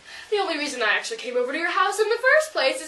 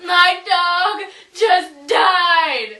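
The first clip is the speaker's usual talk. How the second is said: hammed-up sob, louder; fake crying; 2 semitones lower, 7 dB louder, much slower than usual. Girl fake-sobs to her friend about her dead dog. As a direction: wail it like fake grief. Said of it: "don't be so emotional".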